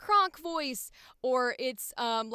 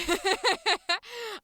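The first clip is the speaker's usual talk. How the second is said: real high, delighted laugh; 8 semitones higher, 5 dB louder than usual. Real, not acted. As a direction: burst into a high giggle. Delighted at own Ash voice.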